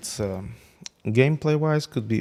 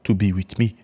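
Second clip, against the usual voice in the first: haughty, louder mock boast; lightly put-on voice of a smug hero; proud declaration in a slightly altered voice; arrogant Sunfire; 4 dB louder than usual. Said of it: "he's saying stuff like".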